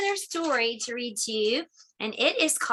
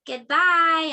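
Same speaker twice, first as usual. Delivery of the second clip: louder, cheerful goodbye; 3 semitones higher, 6 dB louder than usual. Real, not acted. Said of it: "calling goodbye to class".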